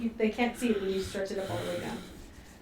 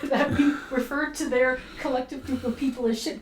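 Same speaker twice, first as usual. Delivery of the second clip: laughing. Real, not acted. Amused by raiders' group name.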